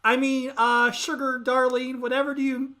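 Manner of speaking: fake southern accent. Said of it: "she forgot the southern accent".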